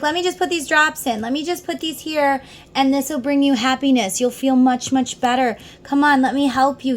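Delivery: coaxing. Acted. Universe urging a reluctant person to accept help, coaxing. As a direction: coax them to accept help.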